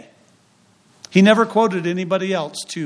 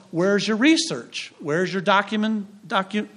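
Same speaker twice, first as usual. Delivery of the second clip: mock professor; 3 semitones higher than usual. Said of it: "He wants to know".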